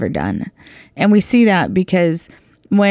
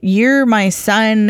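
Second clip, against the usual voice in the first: eager father; 4 semitones higher, slower than usual. Retold or imitated. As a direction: cut off his apology with joy. Father welcomes returning son.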